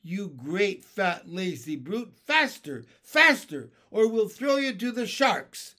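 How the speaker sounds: urgent high, loud shouted order; shouting. A narrator's reading. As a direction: bellow at a lazy worker to hurry.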